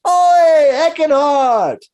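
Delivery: high, loud Cockney-style shout; stranger hailing. Acted. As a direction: hail him across the room. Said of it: "this stranger ... says".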